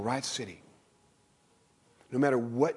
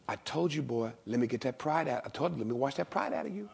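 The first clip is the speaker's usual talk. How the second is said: gentle Jesus. Acted. Jesus answers Peter gently.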